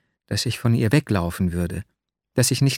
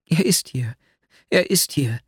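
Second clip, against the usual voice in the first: higher, urgent repetition; excited interruption; 4 semitones higher than usual. A narrator's reading. Nastjenka cutting in, agitated and higher. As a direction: cut in, agitated and sure. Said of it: "fiel mir Nastjenka erregt ins Wort".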